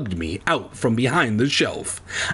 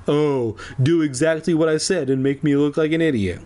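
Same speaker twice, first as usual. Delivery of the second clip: mocking voice; 4 semitones higher than usual. Mocking parody voice.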